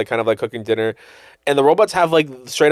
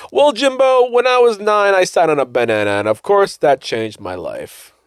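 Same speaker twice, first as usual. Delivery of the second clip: high goofy dad voice, slowing at the end; Jimmy's dad voice; 5 semitones higher than usual. Retold or imitated. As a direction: play a dim, earnest cartoon dad. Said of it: "the show where he's just like".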